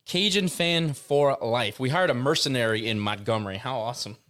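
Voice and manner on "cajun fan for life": slow, relishing repeat; slowly relishing a catchphrase; savoring it slowly. Real, not acted. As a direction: draw the words out to enjoy them. Savoring the phrase just said.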